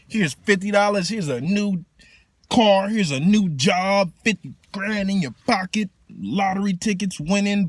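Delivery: shower them with gifts; lavish blessing. Retold or imitated. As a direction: goddess generously rewarding, excited.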